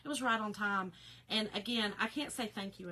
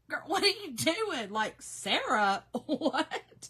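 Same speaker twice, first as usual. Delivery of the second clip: laughing disbelief; 4 semitones higher, 5 dB louder, slower than usual. Retold or imitated. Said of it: "And I was like".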